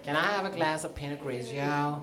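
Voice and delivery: half-hearted gay voice with a laugh in it; attempted gay voice. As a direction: make a shy, giggly stab at a gay voice. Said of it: "I can't really do it".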